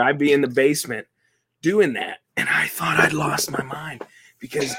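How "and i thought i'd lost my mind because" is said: laughing. Real, not acted. Laughing while recalling.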